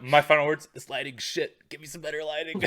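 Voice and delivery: high, melodramatic dying complaint; overacted last words; dying diva voice. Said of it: "I'm like".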